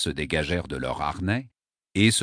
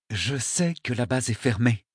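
through clenched jaw; 4 semitones higher than usual. Acted. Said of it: "la mâchoire crispée".

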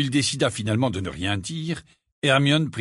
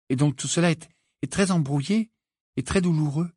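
put-on higher-pitched girl's explanation; lightly voiced Hermione figure, patient; 4 semitones higher than usual. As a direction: lay it out point by point, pitched up. Narrator voices Hermione explaining feelings. (voix plus aiguë, explicative)

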